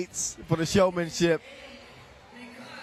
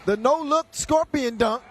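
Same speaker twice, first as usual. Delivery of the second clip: excited; 6 semitones higher than usual. Real, not acted. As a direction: call it like it's unbelievable. Commentating a wild no-look dunk.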